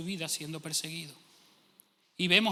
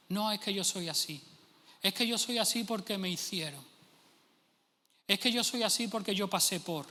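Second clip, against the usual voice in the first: mock excuse; 3 semitones higher than usual. Preacher mocks believers who excuse their character, whiny. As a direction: sound like someone dodging blame with a shrug.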